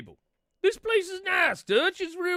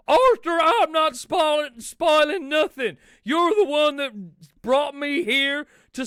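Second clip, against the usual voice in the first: loud, high, furious demand; red-faced outlaw shouting at the waiter; Dutch yelling; 3 semitones higher, 5 dB louder than usual. Acted. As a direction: bellow for a steak like an outraged cowboy. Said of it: "Dutch, Dutch".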